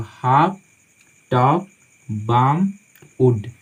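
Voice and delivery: हाफ, टॉक, बाम, वुड all with silent L; no L heard in हाफ, टॉक, बाम or वुड; correct pronunciation. Shown as a demonstration. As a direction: model हाफ, टॉक, बाम, वुड one by one, pausing between. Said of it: "ये इसका correct उच्चारण है".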